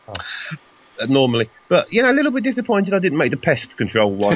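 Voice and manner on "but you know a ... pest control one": words broken by a laugh; half-laughing mock complaint about the pest control award. Real, not acted. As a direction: joke about the lost award through a chuckle. Joking disappointment, laughing.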